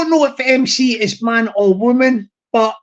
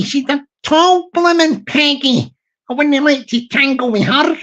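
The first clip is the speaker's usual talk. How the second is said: put-on Glasgow banter, a little higher; mock-wary Glasgow patter; Glaswegian accent; 4 semitones higher than usual. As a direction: joke about a tough opponent in Glaswegian. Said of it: "I will do the Glaswegian accent".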